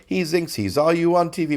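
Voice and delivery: light mock German accent, "thinks" said as zinks; chorus line sung in a hint of German. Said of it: "with the accent".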